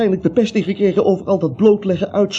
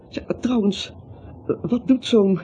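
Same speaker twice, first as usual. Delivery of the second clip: gefluisterd; 2 semitones higher, 4 dB quieter than usual. Acted. Vertrouwelijke vraag aan Gina.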